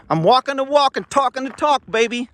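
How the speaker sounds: high, hammed-up swagger; playful boast. Playful boast while walking.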